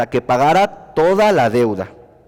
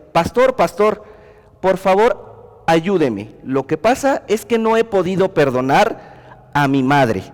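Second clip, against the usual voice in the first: pleading woman; 4 semitones higher than usual. Retold or imitated. Woman begging pastor for help.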